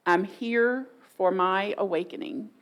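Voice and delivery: sincere, measured statement; meaning it. Shown as a demonstration. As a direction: say it like you truly mean it. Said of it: "if today you actually meant it".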